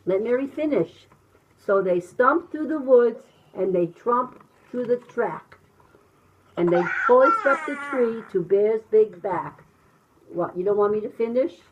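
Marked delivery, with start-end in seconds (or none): 1.6-9.6 animated, rhythmic picture-book narration; reading to children. A narrator's reading. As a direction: bounce through the rhyme with sound effects.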